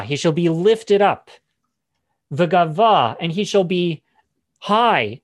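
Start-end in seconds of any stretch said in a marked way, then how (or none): 2.3-3.2 "V'gava" said loudly, stress on -ga-; "V'gava" loud and deliberate; Hebrew word. Shown as a demonstration. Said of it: "quite emphatic".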